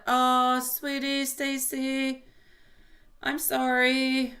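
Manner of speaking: high, drawn-out sympathetic cooing. Real, not acted. Reader consoles a heartbroken viewer, sympathetic.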